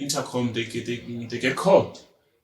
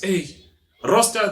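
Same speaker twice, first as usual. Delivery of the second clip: mother calling; 5 semitones higher than usual. Retold or imitated. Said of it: "the mother calls".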